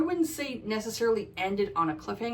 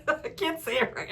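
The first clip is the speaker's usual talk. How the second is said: laughing through "I can't say it right", higher; 6 semitones higher than usual. Real, not acted. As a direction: giggle at your own stumble. Laughing at her own mispronunciation.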